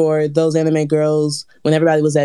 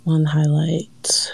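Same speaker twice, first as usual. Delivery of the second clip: whispering; much slower than usual. Real, not acted. Pondering the question.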